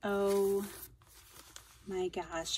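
ordinary talk

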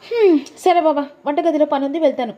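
coy and teasing about the photos; voiced wife. Wife voice again.

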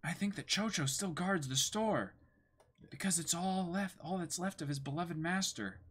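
Luffy, lightly voiced. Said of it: "this is Luffy".

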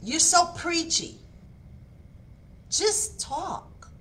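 high-pitched mock nagging at oneself; self-criticism. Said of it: "this is what I was saying".

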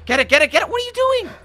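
real panic, pleading with the game; frantic urging. Real, not acted. Player urging his character in a fight, frantic.

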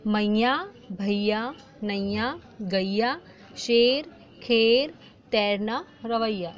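each word drawn out, ending in a rising lilt; slow sing-song word list; slow word reading. Shown as a demonstration. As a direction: read each word slowly for children. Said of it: "कैसे पढ़ेंगे?".

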